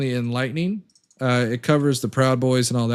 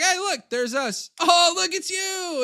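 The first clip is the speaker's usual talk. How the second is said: high mocking voice, much higher; mocking Proud Boys. Streamer mocks Proud Boys watching themselves on TV, high mocking voice. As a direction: mimic them gawking at the TV, high and silly. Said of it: "They're just like".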